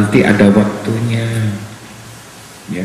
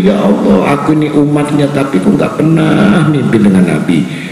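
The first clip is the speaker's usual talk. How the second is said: mild longing prayer; 3 semitones higher than usual. Retold or imitated.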